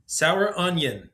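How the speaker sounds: put-on high child voice, drawn out; small child saying it slowly. A narrator's reading. Child repeats snack name.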